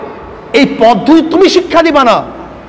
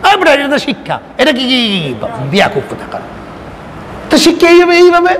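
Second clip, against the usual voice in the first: mock retort; 3 dB quieter than usual. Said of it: "তখন কি বলবেন?".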